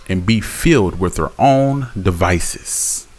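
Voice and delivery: slow, solemn reading of Proverbs; measured, solemn Bible reading; scripture reading. Acted. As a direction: read the verse like a preacher. Reads Proverbs slowly.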